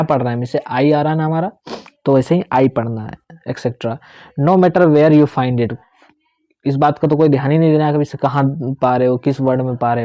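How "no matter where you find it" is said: slow reading. Shown as a demonstration. Teacher reading rule from book.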